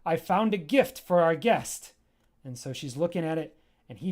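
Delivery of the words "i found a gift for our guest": louder, higher order, then slower; commanding character. Acted. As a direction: order everyone back with authority. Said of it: "She says".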